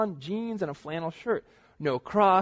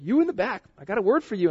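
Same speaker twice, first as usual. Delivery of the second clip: higher, louder pulpit call; 6 semitones higher, 5 dB louder than usual. Retold or imitated. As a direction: project to the back row. Pastor calls to the back.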